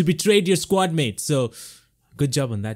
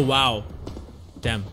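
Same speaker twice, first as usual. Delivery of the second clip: normal talking voice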